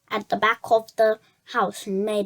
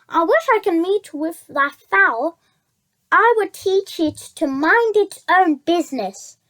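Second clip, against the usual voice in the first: a lightly voiced, smooth, courteous fox; sly fox gentleman. Fox flatters Jemima in a lightly voiced sly gentleman's voice. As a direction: sweet-talk the duck like a charming villain.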